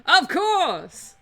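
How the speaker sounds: drawn-out, grand New Orleans boast; boastful lawyer Falcon. Acted. Lawyer boasting to his assistant, hammed-up and drawn out. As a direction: puff up the name, slowly.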